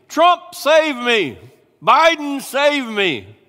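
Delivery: high, loud, hammed-up cries; mock pleading. Preacher mocking people begging politicians to save them. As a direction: whine each plea in mockery.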